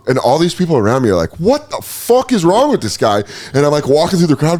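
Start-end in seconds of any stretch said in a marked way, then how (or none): 1.4-3.2 higher-pitched mock disbelief; baffled onlookers. People around a tripping man, incredulous and higher-pitched. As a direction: imitate bystanders appalled by a weirdo. Crowd's baffled reaction, acted.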